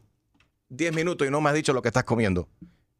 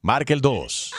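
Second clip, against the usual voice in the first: lightly done automated recording; phone menu voice; slower than usual. Acted. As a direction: read it like a robocall message. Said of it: "llamada automatizada".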